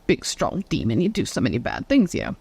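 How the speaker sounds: mock-impressed taunt, dropping low. Priest mocking the demon doll, sarcastic fake awe. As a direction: sneer at the demon's supposed powers. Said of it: "He mocked the demon's powers".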